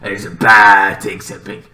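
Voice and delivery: a quick put-on British accent; lightly done posh British voice. Shown as a demonstration.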